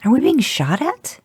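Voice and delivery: high, alarmed yell back over the noise. A narrator's reading. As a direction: shout it in sudden fear. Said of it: "you yelled back at Dean".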